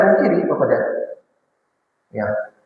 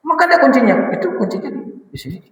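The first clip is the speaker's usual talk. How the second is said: much higher, laughing as he points it out; laughing husband; 9 semitones higher, faster than usual. Acted. Preacher voicing a husband laughing at his wife's hanging key. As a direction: chuckle while showing the key round her neck.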